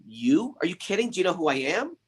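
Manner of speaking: scornful demon. Acted. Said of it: "Ravana laughed".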